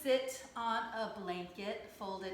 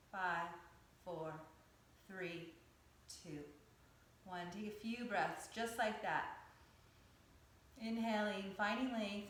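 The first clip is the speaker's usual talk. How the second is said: calm, measured yoga teacher's cueing; guided yoga meditation. Acted. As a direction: guide them through breath and stretch, unhurried, with pauses. Leads yoga breathing and stretches.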